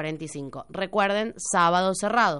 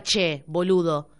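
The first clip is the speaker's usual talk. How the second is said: slow mock "Che, boludo"; imitating an Argentine greeting; Argentine slang; 3 semitones lower, slower than usual. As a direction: Rioplatense "Che, boludo", drawn out. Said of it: "que el español diga".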